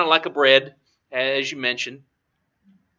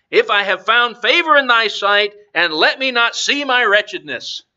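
emphatic Bible reading aloud; scripture reading; 3 semitones higher than usual. Acted. Preacher reads Moses' plea to the congregation, scripture reading. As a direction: read it out with weight on the key words.

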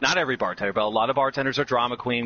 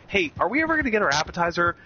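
imitating a customer, higher and quick; mock complaint, pitched up and hurried; impatient customer; 6 semitones higher, faster than usual. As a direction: play the fed-up diner, lightly. Voicing an impatient waiting customer.

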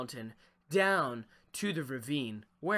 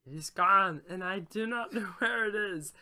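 lightly voiced creature, rising higher and louder; a mock fishy creature voice, drifting in and out; salamander speech; 5 semitones higher, 4 dB louder than usual. The salamander answers the fisherman in a mock fishy voice. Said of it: "your voice goes in and out of salamander speech".

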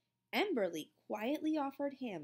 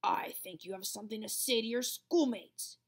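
growl. A narrator's reading. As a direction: hiss it as a threat. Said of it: "she would growl".

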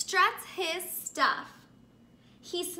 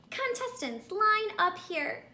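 announcer voice; 5 semitones higher than usual. Acted. Contest host calls.

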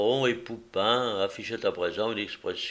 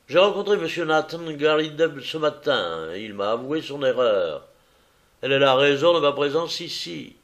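louder, curt visitor voice; brusque visitor; 4 semitones higher, 5 dB louder than usual. Acted. Visitor telling Holmes to stay out, louder and curt. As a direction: brush the detective off firmly.

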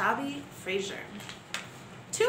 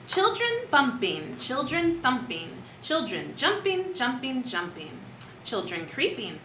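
put-on lively, rhythmic read-aloud for young pupils; poem for children. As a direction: bounce the action words like a playground chant. Teacher reads poem to pupils.

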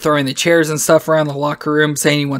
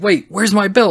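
higher-pitched retold double take; mock alarm; 6 semitones higher than usual. Shawn looking around for his belt, retold in mock alarm. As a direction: lightly act out sudden puzzlement.

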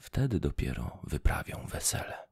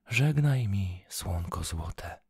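calling farewell; 5 dB louder, slower than usual. Acted. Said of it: "zawołała i wyciągnęła rączki".

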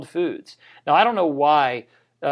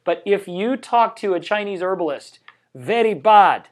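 put-on Pakistani accent; 5 semitones higher, 4 dB louder than usual. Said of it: "that was a terrible, ... more like a Pakistani accent".

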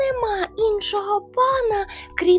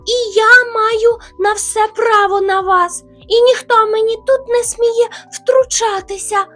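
loud, raised bear threat; shouting bear; 14 semitones higher, 12 dB louder than usual. Retold or imitated. Hare imitating the rival bear's loud threat. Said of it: "кричить".

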